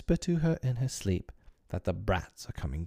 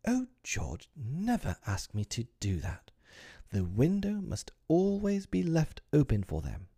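pleading; 7 semitones higher than usual. Acted. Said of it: "wife pleading about the window".

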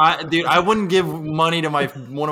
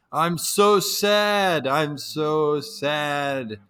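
mock sad whine; 3 semitones higher, much slower than usual. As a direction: imitate the homeless man moping. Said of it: "and he's going".

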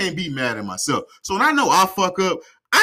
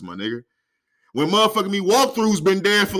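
ordinary delivery

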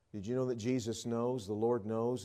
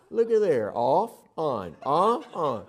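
excited show and tell; 4 semitones higher, 8 dB louder, slower than usual. Retold or imitated. Husband demonstrates toothbrush excitedly.

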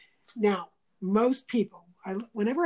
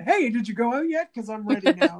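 bright, louder call to a friend; upbeat phone greeting, all anger gone; cheery retold call; 2 semitones higher, 6 dB louder than usual. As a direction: sound ready and cheerful again.

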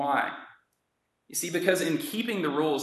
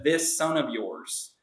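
cold contempt; 2 semitones lower, slower than usual. Retold or imitated. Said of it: "wouldn't even refer to his brother as his brother".

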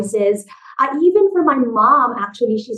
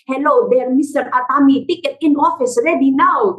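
mock Japanese accent; 3 semitones higher than usual. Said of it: "speaking in accents".

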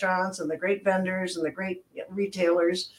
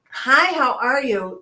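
held up phrase; 4 semitones higher, 4 dB louder, slower than usual. Shown as a demonstration. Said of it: "is another phrase that we have eliminated".

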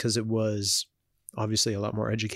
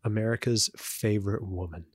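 sarcastic. Real, not acted. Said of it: "Saying that with a bit of sarcasm".

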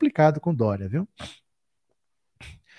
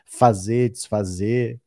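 hiccuping between words; talking through hiccups; slower than usual. Real, not acted. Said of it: "Tô com soluço hoje".

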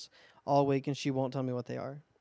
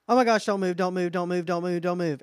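panicked warning; 2 semitones higher, 6 dB louder than usual. Retold or imitated. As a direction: warn him to freeze, fast. Stranger's panicked warning retold.

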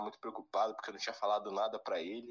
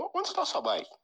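chamado agudo e alto do pai; pai chamando alto; 6 dB louder than usual. Retold or imitated. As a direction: imitar o pai gritando pela casa. Pai pergunta pela bike. (pai chamando o filho, voz aguda e alta)

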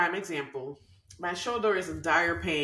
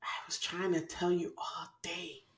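inner voice; slower than usual. Retold or imitated. Inner voice scolding stubborn Joanna, slow. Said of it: "that voice was like".

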